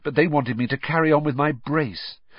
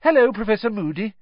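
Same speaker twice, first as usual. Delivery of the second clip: loud, much higher call across the hall; said loudly; 11 semitones higher, 4 dB louder, faster than usual. A narrator's reading. Hermione calls to an absent teacher, loud and high. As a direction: call out brightly to distract. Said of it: "but Hermione said loudly".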